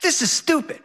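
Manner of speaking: put-on high, whining little boy voice; high whiny child complaining; whiny kid. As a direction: pout it out like a bored kid who's let down. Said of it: "Henry whines".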